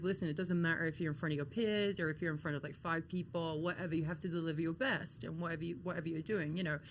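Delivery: quietly encouraging, as a kind mentor would; sweet, gentle reassurance. Retold or imitated. Mentor comforts his upset trainee, retold in a gentle voice. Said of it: "he was just very sweet about it".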